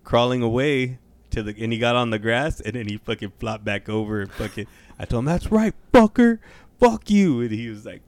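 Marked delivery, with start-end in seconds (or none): 5.3-7.4 high, loud, slow taunt; high mock gloat. Gloating over the dying squirrel in a high taunt.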